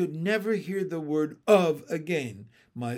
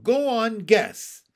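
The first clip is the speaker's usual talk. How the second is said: loud, high goading frog; teasing, loud bullfrog; raspy bullfrog; 6 semitones higher, 7 dB louder, slower than usual. A narrator's reading. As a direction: goad them in a raspy voice. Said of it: "in his raspy voice".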